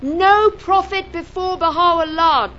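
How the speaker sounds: slow, high, loud "No prophet"; emphatic key phrase. Shown as a demonstration. Teacher pointing to the first words, heavy stress on "No" and "before". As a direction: declaim it with weight on "No" and "before". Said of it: "first three or four words".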